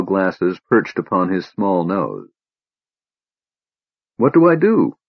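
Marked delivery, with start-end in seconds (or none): 4.2-5.0 breathless, urgent question pitched much higher; out of breath. Acted. Laurana to Tass at the orb, gasping out of breath. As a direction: gasp it out after running. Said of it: "Laurana gasped, out of breath".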